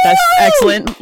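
high excited squeal. Real, not acted. Excited reaction.

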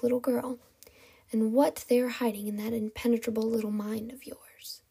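hushed villain turning venomous; seeping venom. Acted. Kidnapper probes captive's secrets, whispery venom. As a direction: let venom seep into the hushed words. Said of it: "Venom seeped into the last words".

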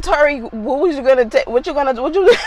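high, loud question breaking into laughter; laughing disbelief. Retold or imitated. Mom re-asking her son about his video, laughing disbelief. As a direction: crack up while trying to ask.

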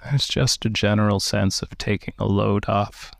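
calm, unhurried meditation guide with long pauses; slow, even-toned breathing instructions; guided meditation. Real, not acted. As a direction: guide them gently into relaxation, leaving space between phrases.

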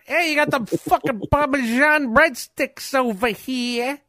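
hammed-up high call, slow; playful high-pitched waiter call; high mock announcer. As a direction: call it out like a pizza server. Voicing pizza place worker.

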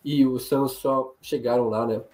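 hoarse, failing voice; voice giving out. Real, not acted. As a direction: voice fading out, throat cleared. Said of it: "minha voz tá sumindo".

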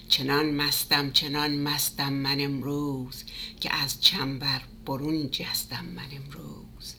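fast, rhythmic Persian recitation, some lines whispered; poem recitation. Acted. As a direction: chant the ghazal with drive, dropping to a whisper.

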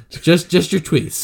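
"tweets" said slow and loud; stress on tweets. Pretend. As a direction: hit "your tweets" firmly.

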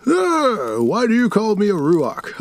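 a wailing undead fiend, mocking; ghoul voice. Cain the ghoul speaks.

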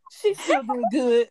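stern mother. Retold or imitated. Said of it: "Like, all stern".

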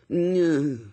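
drawn-out, evasive grunt; non-committal. A narrator's reading. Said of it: "The voice was horribly non-committal".

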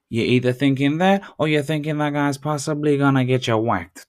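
loud, high put-on American accent; hammed-up American wiseguy accent. Hammed-up accent demonstration continues.

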